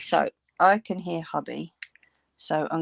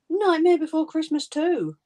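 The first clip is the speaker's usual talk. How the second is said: title squealed much higher and louder, NIGHTMARE leading; excited daughter; 11 semitones higher, 6 dB louder than usual. Retold or imitated. Mum mimicking her daughter shouting the film title, excited. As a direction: shout the title like a thrilled kid. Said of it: "The little lady got proper excited".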